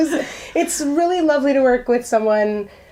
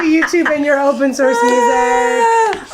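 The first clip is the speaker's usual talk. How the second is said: playful shout; 4 semitones higher than usual. Real, not acted. Thanking YouTube mockingly.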